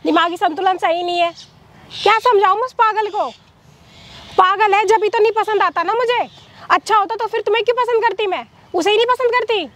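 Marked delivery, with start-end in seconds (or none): 2.0-9.7 exasperated complaint, pitch climbing. Acted. Woman complaining to her lover about her husband, exasperated. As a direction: let the frustration lift your pitch as it goes.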